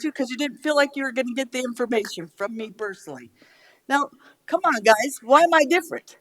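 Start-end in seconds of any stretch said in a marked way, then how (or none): none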